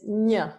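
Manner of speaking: "ñ" said as nyuh; teacher's model "ñ", tongue on palate; palatal n. Shown as a demonstration. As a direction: isolate "ñ" as a ny syllable. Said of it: "this N with the squiggly line".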